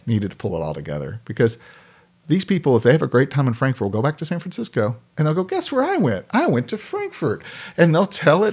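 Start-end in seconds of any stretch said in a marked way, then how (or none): 5.4-7.4 excited tourist. Retold or imitated. Tourist bragging back home.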